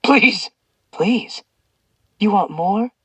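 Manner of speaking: high broken pleading; tearful high please; pleading sob. A narrator's reading. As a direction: beg through tears. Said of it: "Zeus sobbed".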